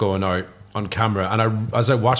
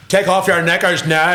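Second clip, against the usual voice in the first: intimidating seducer; 6 semitones higher, 3 dB louder than usual. Acted. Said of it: "It's more intimidating than, than sexy".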